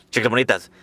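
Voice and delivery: Chicas Bonitas in a Spanish accent; mock Spanish accent on Chicas Bonitas; Spanish accent pronunciation. Shown as a demonstration. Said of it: "not meant to be said with that Spanish accent".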